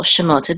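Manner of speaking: Shemot stressed on the final syllable; Shemot, weight on its last syllable. Shown as a demonstration. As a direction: put the accent on the end of Shemot. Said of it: "accent of the words on the last syllable".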